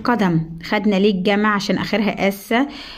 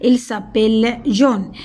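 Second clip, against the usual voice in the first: slow model sentence; much slower than usual. Shown as a demonstration. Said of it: "نخلي بالنا من السي هنا".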